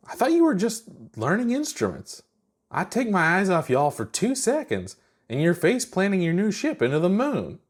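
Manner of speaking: half-amused scold from outside; Chuck's voice. Acted. Chuck scolding the pilots after the crash, high teasing voice.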